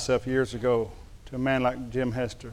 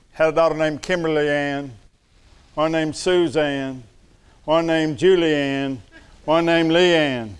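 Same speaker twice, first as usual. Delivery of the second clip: slow deliberate list. Real, not acted. Listing daughters' rhyming names.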